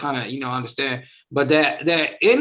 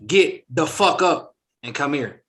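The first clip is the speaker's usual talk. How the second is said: harsh version; 3 dB louder, slower than usual. Shown as a demonstration. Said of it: "But in actuality, she said".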